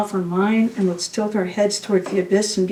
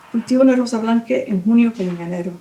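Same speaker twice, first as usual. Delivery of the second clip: fluent Spanish; 3 semitones higher, faster than usual. Acted. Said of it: "how do you read that accent".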